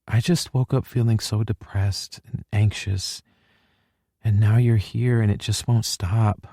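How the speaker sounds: put-on upset girlfriend voice, fragile; upset young woman. A narrator's reading. Hallie figure, crying.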